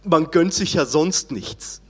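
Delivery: slow, relishing ad slogan; ad slogan quote. Retold or imitated. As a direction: savour it like an old TV ad. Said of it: "sagt dann den Werbeslogan".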